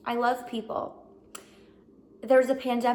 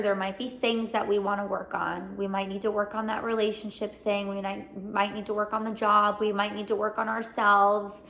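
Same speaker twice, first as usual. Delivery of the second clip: reassuring. Real, not acted. Soothing reassurance to viewers.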